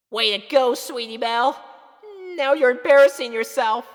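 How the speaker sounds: put-on high, loud, nervous young girl voice; flustered little filly. Little sister confessing her crush to big sister, high and flustered.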